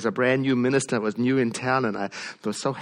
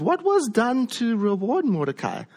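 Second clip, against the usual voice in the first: king demanding; 10 semitones higher than usual. Retold or imitated. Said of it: "And he says to his attendants".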